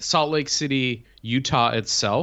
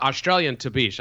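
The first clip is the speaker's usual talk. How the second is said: Australian Tabish. Shown as a demonstration. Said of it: "I like the Australian, uh, inflection".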